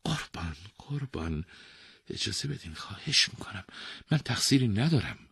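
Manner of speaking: weaver begging the king for mercy; pleading. Acted. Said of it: "التماس کنان گفت".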